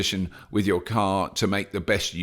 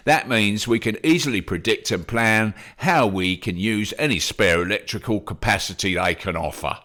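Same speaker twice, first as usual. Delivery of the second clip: slightly London. Retold or imitated. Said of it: "I want him to be slightly London".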